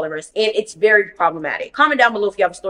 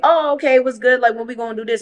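eager friends; 5 semitones higher, faster than usual. Retold or imitated. Friends asking the link-up when the drinking plans happen, excited and eager. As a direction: play the friends hyped to go out.

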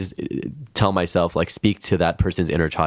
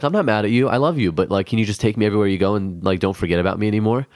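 put-on innocent child voice; faster than usual. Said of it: "he's just so innocent".

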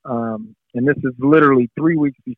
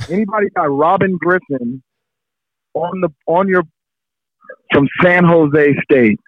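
retold shout; 3 semitones higher than usual. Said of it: "screaming into a room of a bunch of guys".

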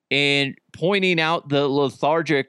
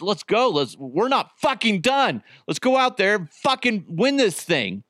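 pumped, higher-pitched mock hype; amped-up teammate; 6 semitones higher than usual. Imitating a teammate hyping the quarterback, amped up. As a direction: fire up the team like you mean it. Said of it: "Purcell just amped up".

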